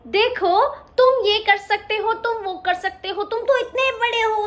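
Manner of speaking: high, bragging little cub; a hint of a smug cub; boastful lion cub. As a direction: show off to the elephant.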